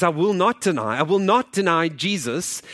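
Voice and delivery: retold defiant declaration, stressing NOT; firm refusal. Thomas answers captors who demand he deny Jesus, firm refusal.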